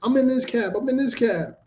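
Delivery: high-pitched woman's voice throughout; woman pushing into the cab. Retold or imitated. Woman blocking the cab door, high and insistent. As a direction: act out the stranger forcing her way in. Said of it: "an arm stop the door from closing and say".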